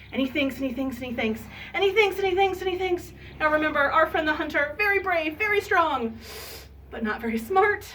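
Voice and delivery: animated story narration, rising in pitch; children's storytelling. A narrator's reading. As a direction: build the repetition playfully for kids. Storytelling to children, building repetition.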